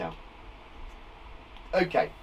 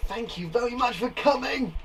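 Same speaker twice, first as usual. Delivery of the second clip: higher-pitched exclamation; exclaiming; 4 semitones higher than usual. Shown as a demonstration. Teacher showing the exclaimed version, higher and emphatic. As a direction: give the thanks more importance. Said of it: "it's saying it's more important".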